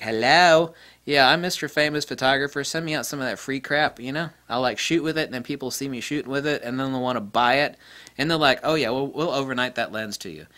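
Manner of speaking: mock famous photographer. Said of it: "It's like".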